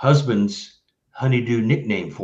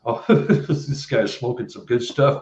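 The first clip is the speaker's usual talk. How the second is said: mocking laugh. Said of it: "you only get two reactions".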